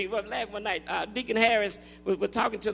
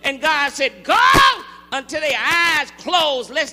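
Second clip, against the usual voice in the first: drawn-out, shouted key words; emphatic preacher's proclamation; full-force preaching; 2 semitones higher, 5 dB louder, slower than usual. Acted. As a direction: call out the scripture, stretching each command.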